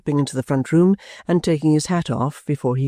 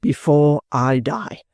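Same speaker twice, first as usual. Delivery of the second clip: drawn out, slow, as a stage cue; slow cue line; 3 semitones higher, much slower than usual. Acted. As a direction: stretch it out slowly for the band. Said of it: "Cue for the band".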